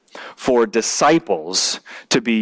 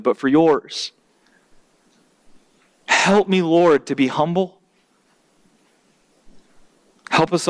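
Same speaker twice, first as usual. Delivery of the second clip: earnest prayer. Real, not acted. Preacher pleading with God before the congregation, earnest prayer. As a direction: pray in measured phrases with long pauses.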